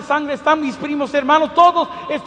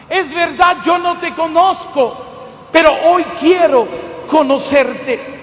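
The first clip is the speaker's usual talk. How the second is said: retold prayer; slower than usual. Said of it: "le dije estas palabras a Dios".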